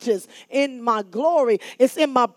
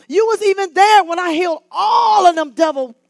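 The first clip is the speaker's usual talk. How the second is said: building preach; 4 semitones higher, 5 dB louder than usual. Acted.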